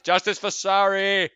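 loud, high, laughing slogan; laughing rallying cry. Acted. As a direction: cheer it through a laugh.

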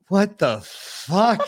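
slow, drowsy mock confusion; half-asleep grumble, drawn out; sleepy startled curse; groggy what the fuck. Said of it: "you were like".

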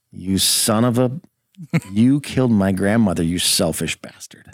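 slow, low mock-outraged accusation. Man jokingly accosting an unmasked stranger from behind, mock accusation. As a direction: drag it out as a joking accusation, dropping low at the end. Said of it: "Just kidding, man".

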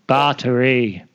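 battery in a South African accent, /pɑtə˞i/; Battery with an open, broad first vowel. Shown as a demonstration. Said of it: "you say battery with a South African accent".

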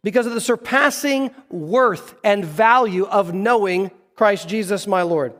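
scripture reading. Acted. Preacher reading Paul to the congregation, slow and solemn.

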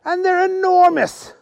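very high exclamation of shock; acted astonishment; aghast. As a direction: marvel in high-pitched dismay. Archie is shocked by the worms.

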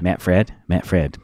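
a hint of a badly faked Australian accent on "Frad". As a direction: try an Australian twang on "Matt Frad" and miss it. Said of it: "I can't do a good Australian accent right now".

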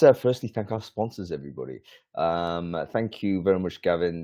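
rough, husky hungover voice; hoarse from drinks and cigar smoke. Real, not acted. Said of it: "This is literally too many drinks last night".

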